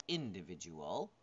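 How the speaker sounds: "individual" as a questioning option, rising at the end; testing word stress. Shown as a demonstration. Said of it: "where do you put the stress?".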